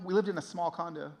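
ordinary talk

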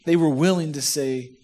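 ordinary delivery

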